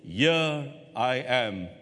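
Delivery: very slow, hushed reply; reverent answer. Acted. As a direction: answer slowly, in awe. Moses answering God's call.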